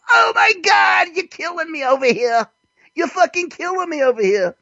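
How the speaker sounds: very high, hammed-up cry of protest; outraged deli customer. Acted reaction of deli victim.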